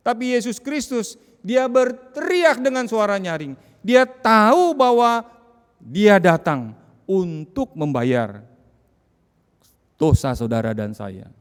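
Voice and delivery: loud, high sermon climax; rising pulpit fervor, fast; fiery preaching. Acted. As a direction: preach it out at full force.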